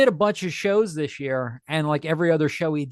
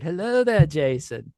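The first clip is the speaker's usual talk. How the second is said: Ewan McGregor; slower than usual. Acted. Actor greeting a fainting fan, light impression. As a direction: lightly imitate the actor, dropping on the name. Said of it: "when Ewan McGregor said".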